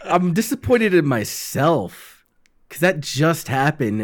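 slow words through a laugh; disappointed laughing. Real, not acted. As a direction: laugh at yourself, let down. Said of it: "it's the disappointed voice".

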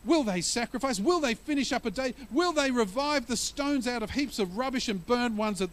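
a touch of a mocking bully; jeering bully. Preacher voicing Sanballat jeering at the Jews, mildly mocking. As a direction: sneer it like a taunting enemy. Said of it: "That's what bullies do".

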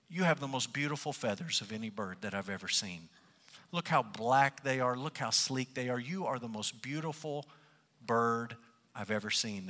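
understated sneaky flatterer; sly fox. Acted. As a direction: flatter smoothly to win something. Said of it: "often in these fables is sly and sneaky".

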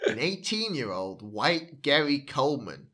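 put-on terrible American accent. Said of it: "I'm not gonna stop doing terrible accents".

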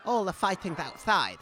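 put-on posh accent. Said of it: "this stupid posh accent".

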